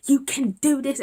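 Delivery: loud, high pep talk; imitated rousing encouragement; motivating sister. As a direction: push them on like an insistent sister. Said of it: "That's how my sister was motivating me".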